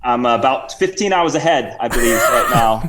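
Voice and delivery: mock Cockney-Australian accent with a chuckle; amused, put-on Cockney-Aussie excuse; Sir Reginald. Guest gives his time zone in fake Cockney-Australian accent. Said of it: "bit of a Cockney accent and Australian".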